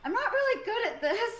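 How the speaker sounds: high-pitched, pleading call; yelling up to someone. Acted. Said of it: "I yell up to Bojangles".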